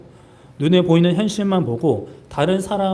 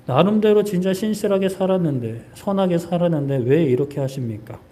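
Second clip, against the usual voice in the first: mild lament; 3 semitones higher than usual. Acted. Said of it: "라는 마음이 들 수 있죠".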